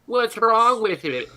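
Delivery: high, slow slime-creature voice; plasmoid natural voice. Acted. Plasmoid answering a disgusted companion, high oozing voice. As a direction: draw it out high like living ooze. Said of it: "Never speak in your natural voice again".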